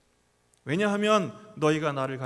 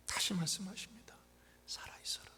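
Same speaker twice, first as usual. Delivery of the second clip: hushed whisper; 11 dB quieter than usual. Acted. God's words whispered in sermon.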